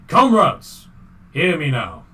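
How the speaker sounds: loud, high rallying shout in bad Russian accent; shouted Russian-accented call. Reindeer calling comrades to listen, shouting in Russian accent. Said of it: "she shouts out".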